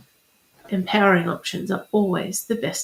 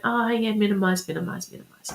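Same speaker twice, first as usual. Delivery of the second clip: minimizing; faster than usual. Retold or imitated. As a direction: wave it off, voice dropping away. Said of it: "And you're going".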